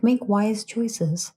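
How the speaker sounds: slow owl saying, lightly voiced; wise owl. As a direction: lightly play a wise owl, drawing the words out. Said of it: "doing that common owl thing".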